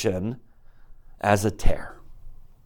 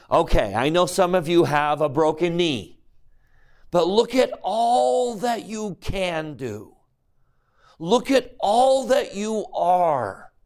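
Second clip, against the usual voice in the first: higher, slow, tender encouragement; a loving father lifting his child up; gentle Heavenly Father; 5 semitones higher than usual. Acted. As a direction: coax them to see all they can do. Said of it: "Heavenly Father doesn't come into your life and say".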